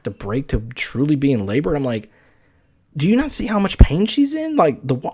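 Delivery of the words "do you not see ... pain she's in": pitched high, exasperated demand at the nurses; angry demand. Retold or imitated. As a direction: make them see how much pain she's in. Arguing with nurses about wife.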